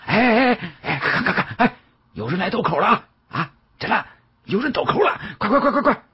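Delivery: high, urgent calls to the crowd; rally everyone to come watch; excited calling out. A narrator's reading. Onlooker calling people over to watch, excited high shouts. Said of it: "立刻招呼左右".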